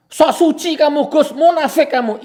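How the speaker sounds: loud, high-pitched jeer imitating an accuser; mock accusation. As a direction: mimic a critic yelling an insult. Voicing accusers of himself.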